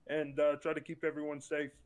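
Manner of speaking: hoarse, strained voice; losing voice. Real, not acted. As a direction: voice cracking and fading. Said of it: "sorry I lose my voice there".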